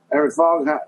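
Southern accent, a hint of Tommy Lee Jones. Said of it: "like, a Tommy Lee Jones".

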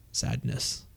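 a breathy, hushed mock lament for a dead hero; mock sadness. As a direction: drop to a whisper as if mourning, tongue in cheek. Mock mourning a character's death.

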